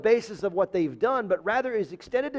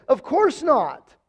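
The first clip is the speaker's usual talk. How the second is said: slow, higher, louder "Of course not"; emphatic denial; 6 semitones higher, 4 dB louder, slower than usual. Shown as a demonstration. Pastor reading the verse, slow emphatic denial. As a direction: draw out "Of course not" with weight. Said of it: "It's an emphatic denial".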